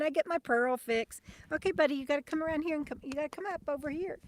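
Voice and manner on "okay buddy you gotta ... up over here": talking to a dog. Real, not acted. Coaxing the dog to come.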